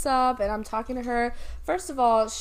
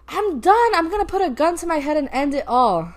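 retold caller; 6 semitones higher, 7 dB louder than usual. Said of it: "and then she's like".

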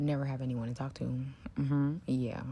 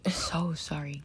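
hushed, unvoiced apology; whisper; 3 dB louder, slower than usual. Real, not acted. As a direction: whisper it so nobody nearby hears. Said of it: "I have to whisper because of my surroundings".

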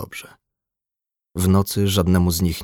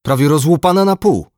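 high, loud horrified exclamation; shocked cry; 10 semitones higher, 7 dB louder than usual. A narrator's reading. Fisherman describes the head wound to crew, crying out. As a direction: keep crying out at the sight of a wound. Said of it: "krzyknął rybak".

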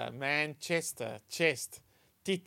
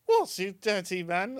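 drawn-out, higher Yorkshire wife; Yorkshire accent; 5 semitones higher, 4 dB louder than usual. Acted. Wife in a joke answers a stranger's proposition, Yorkshire accent. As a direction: put on a slow Yorkshire reproach. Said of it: "the Yorkshire accent really makes it".

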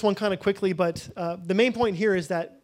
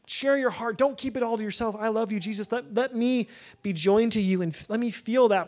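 heartfelt prayer; 3 semitones higher than usual. Acted. Prays aloud to Jesus.

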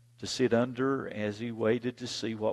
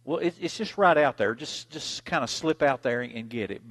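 mama coaxing; 4 semitones higher, 5 dB louder than usual. Retold or imitated. Mama coaxes child.

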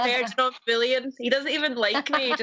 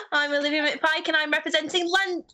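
attempted English accent, slightly raised pitch; 4 semitones higher than usual. Shown as a demonstration. Contestant attempting her pageant introduction, English accent. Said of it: "things in a, in an English accent".

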